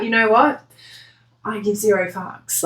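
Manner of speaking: dismissive shrug. Retold or imitated. Querent voiced brushing off crying people, mild dismissive shrug. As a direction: toss off "zero fucks" like you don't care. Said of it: "that's sort of the vibe".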